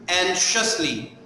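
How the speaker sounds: "Anxiously" said alone, slowly, with a falling end; careful pronunciation model. Shown as a demonstration. Teacher showing pupils how to say "Anxiously", slow and careful. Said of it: "how I am pronouncing each word".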